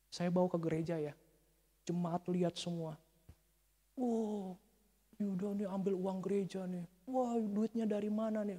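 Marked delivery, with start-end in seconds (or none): 3.9-8.6 lightly voiced gossips, a little higher; mock the wondering onlookers' suspicion; gossiping congregation. Preacher imitating congregation suspecting church money was taken, mock gossip.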